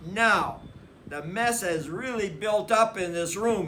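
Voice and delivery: calm fatherly lecture; lightly voiced Papa. A narrator's reading. Papa addressing the family meeting, lightly firm.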